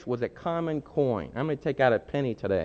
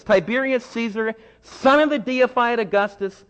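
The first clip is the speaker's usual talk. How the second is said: reading an inscription slowly; 8 semitones higher, 3 dB louder than usual. Shown as a demonstration. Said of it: "let me read that again".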